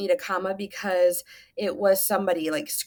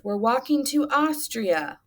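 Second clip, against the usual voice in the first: higher, slow exclaimed reply; mild exclamation; 5 semitones higher, 3 dB louder, slower than usual. Acted. Teacher reads Waleed's reply to students, mildly exclaimed. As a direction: exclaim it lightly, drawn out. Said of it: "Waleed exclaimed because it's an exclamation".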